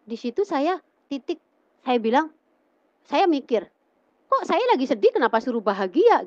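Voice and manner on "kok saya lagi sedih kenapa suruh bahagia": baffled protest. Retold or imitated. Retold baffled protest at the verse.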